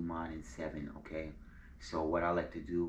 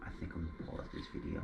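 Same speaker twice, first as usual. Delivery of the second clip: whispering; 5 dB quieter, much faster than usual. Real, not acted. Aside before pausing the recording.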